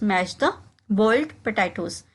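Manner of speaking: slow, careful drill phrase; slowed classroom demo; slow model repetition. Shown as a demonstration. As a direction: say it slowly for learners to copy. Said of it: "इसको हम कहेंगे".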